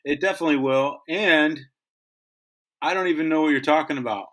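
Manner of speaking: talking while chewing gum; words through a mouthful of gum. Real, not acted. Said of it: "stop doing is chewing your gum so loud".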